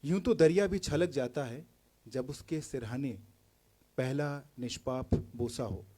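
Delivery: declaimed verse, openings lifted and endings sinking; poetry recital. Acted. Poet asking who has seen love closest, poetry recital. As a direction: recite it phrase by phrase, building on repeated lines.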